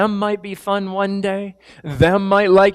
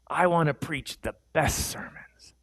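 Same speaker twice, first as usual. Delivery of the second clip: hushed, breathy-free whisper of ambition; 6 dB quieter than usual. Retold or imitated. Young preacher whispering his hopes to himself. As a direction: whisper it like a secret dream.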